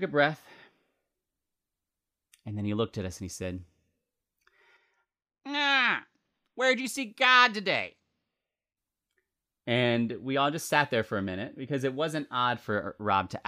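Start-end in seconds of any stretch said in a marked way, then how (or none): 5.5-8.0 high, loud put-on Rob voice; standard Rob voice. Rob asking his staff, in the standard Rob voice. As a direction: do Rob's signature high-pitched voice. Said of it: "this is the standard Rob voice".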